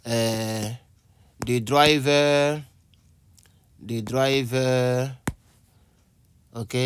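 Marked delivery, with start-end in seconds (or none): 1.4-5.1 the driver said slowly, word by word; teacher dictates example sentence while writing, slowly; dictating slowly. Shown as a demonstration. Say the driver slowly, as if writing it down. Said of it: "teacher writing example sentence".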